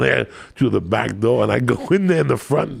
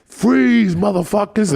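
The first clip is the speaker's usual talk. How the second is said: high, loud mock police yell; retold robber's command yelled high and loud; intimidating shout; 10 semitones higher, 5 dB louder, slower than usual. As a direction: burst in and scare the room. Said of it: "he would kick the door down and go".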